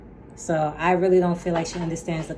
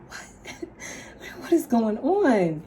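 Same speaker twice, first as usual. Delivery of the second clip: lightly acted scared kid, pitched up; imitated scared child; 7 semitones higher than usual. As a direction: imitate a frightened son, half laughing. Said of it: "He was really, like, scared".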